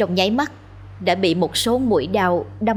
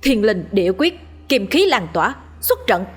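called out incantation. Acted. Exorcist casts his spell, calling it out. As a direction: ring out the spell like a command. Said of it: "hô to".

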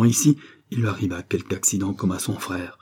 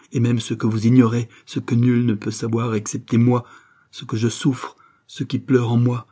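anguished confession; 2 semitones higher, 4 dB louder than usual. Acted. Mother of the dead confiding her secret pain, anguished. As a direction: pour out the suffering, rising toward an appeal.

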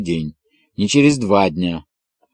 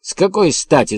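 much higher, outraged question; indignant shout; 8 semitones higher than usual. A narrator's reading. Colonel raging about promoting the sheriff, shouting. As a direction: cry out in indignation. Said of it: "закричал он багровее".

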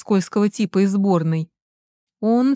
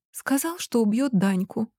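tearful; 4 semitones higher, 6 dB quieter than usual. Acted. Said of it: "Ника всхлипнула".

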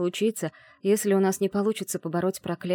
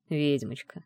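drawled with a smile; 3 semitones lower, slower than usual. Acted. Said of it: "с улыбкой протянул Брейк".

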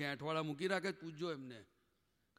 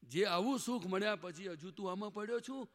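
self-scolding inner voice; 3 semitones higher, 4 dB louder than usual. Pretend. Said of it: "પણ કહીએ".

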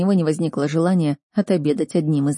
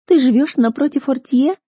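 1 incredulous question; 7 semitones higher, 4 dB louder than usual. Acted. Sister's incredulous accusation.

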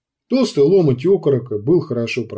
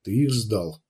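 harsh; 4 semitones lower, 4 dB quieter than usual. A narrator's reading. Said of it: "прозвучал он очень жёстко".

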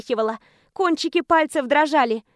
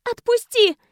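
higher, louder cry to get off; shouting; 8 semitones higher, 3 dB louder than usual. Acted. Teacher fighting off the student, loud high shout. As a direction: shout him away.

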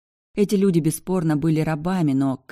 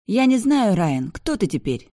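high, louder snapped retort; snapping; 6 semitones higher, 4 dB louder than usual. A narrator's reading. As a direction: snap back at him. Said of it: "огрызнулась Бьянка". (огрызнуться)

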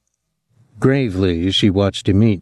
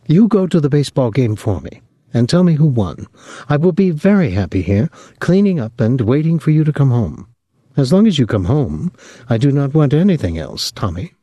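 Clotilde's voice; 6 semitones higher, faster than usual. Acted.

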